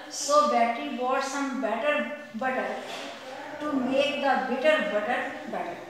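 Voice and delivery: slow and loud, each word placed with care; slow tongue twister demo. Shown as a demonstration. Teacher demonstrating a tongue twister to students, slow and deliberate. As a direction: read it out slowly for the class to copy. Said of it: "First is".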